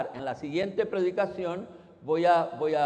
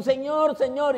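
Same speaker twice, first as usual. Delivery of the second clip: higher, louder cry of Señor, Señor; anguished plea; 7 semitones higher, 5 dB louder than usual. Retold or imitated. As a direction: call out to the Lord in distress. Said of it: "Uno en la aflicción". (súplica angustiada, más aguda y fuerte: "Señor, Señor")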